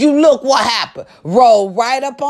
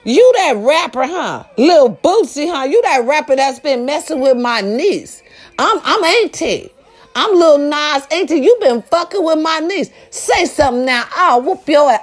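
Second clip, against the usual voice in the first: confrontational auntie, a bit higher; lightly voiced angry auntie; 4 semitones higher than usual. Auntie confronting the rapper about the niece, lightly acted challenge. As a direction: step up and challenge the rapper, mildly hammed-up. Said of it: "Auntie rolled up on and said".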